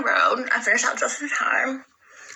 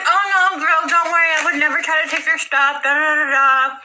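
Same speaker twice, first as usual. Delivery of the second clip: high, loud mocking imitation; mocking high girly voice; 5 semitones higher, 4 dB louder than usual. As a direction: mimic her in a high, whiny voice. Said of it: "She's like".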